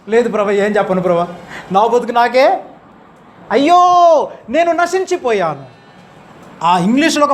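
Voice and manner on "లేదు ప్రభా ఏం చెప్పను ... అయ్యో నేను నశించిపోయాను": slow, rising cry of despair ending on అయ్యో; a man who knows he is ruined, crying out; mock anguished wail, drawn out; despairing lament. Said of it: "అందుకని ఏమన్నాడు ఇప్పుడు?".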